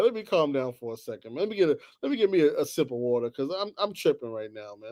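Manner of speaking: low, quiet self-soothing; calming down. Real, not acted. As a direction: talk yourself down quietly.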